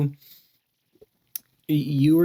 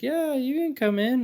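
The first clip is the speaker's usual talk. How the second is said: imitating the lady; 13 semitones higher than usual. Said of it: "she's like".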